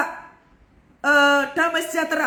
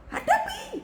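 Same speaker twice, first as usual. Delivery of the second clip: squealed high urging, very high pitch; high exhortation; 4 dB quieter, slower than usual. Real, not acted. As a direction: urge them in a sudden squeaky high cry. Preacher urges congregation to face troubles.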